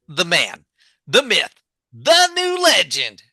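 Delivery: big hyped-up announcer voice; announcer build-up. Pretend. Host hyping his co-host as a legend. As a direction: introduce him like a champion.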